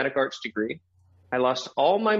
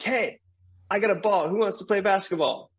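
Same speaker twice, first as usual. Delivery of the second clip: put-on eager kid; 5 semitones higher than usual. Eager kid offering his ball.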